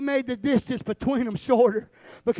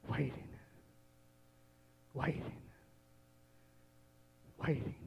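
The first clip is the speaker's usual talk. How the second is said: each waiting drops softer and softer; fading waits; 8 semitones lower, 17 dB quieter than usual. A narrator's reading. Preacher telling of the father waiting on the porch, fading softly. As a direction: let the waiting die away into near silence.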